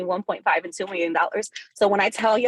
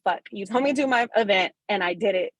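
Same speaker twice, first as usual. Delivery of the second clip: getting emotional. Real, not acted. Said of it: "I'm about to get emotional".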